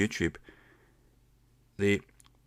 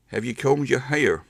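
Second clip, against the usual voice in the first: Tennessee accent; 5 semitones higher, 4 dB louder than usual. Shown as a demonstration. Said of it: "you might say".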